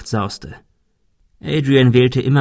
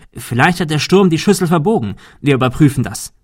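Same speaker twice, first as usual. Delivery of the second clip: lauter, höherer Tatendrang; übermotiviert; 5 semitones higher, 5 dB louder than usual. A narrator's reading. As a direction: pack die Sache übereifrig an. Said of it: "Sogar übermotiviert". (übereifrig)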